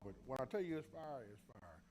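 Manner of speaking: talking through a mouthful; mouth full. Real, not acted. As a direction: speak around a bite of food. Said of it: "Forgive me for talking with food in my mouth".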